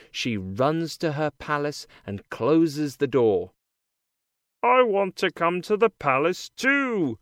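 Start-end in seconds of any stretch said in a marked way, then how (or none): 4.6-7.2 lightly voiced frog character; a hint of a croaky frog. A narrator's reading. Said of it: "says the frog".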